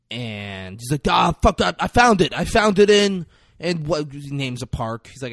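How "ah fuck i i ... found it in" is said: nervous excuse. Retold or imitated. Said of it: "'cause he's nervous".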